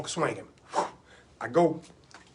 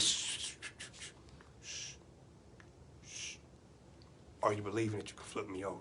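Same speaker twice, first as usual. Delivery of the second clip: low, very soft questioning; hushed coaching; 11 semitones lower, 20 dB quieter than usual. Acted. Uncle calming a doubting nephew, hushed. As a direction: hush him, then ask softly.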